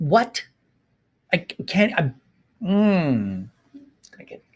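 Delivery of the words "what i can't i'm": a little angry, higher pitch. Speaking about a child forced to have a baby, a little angry. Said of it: "I get a little angry here".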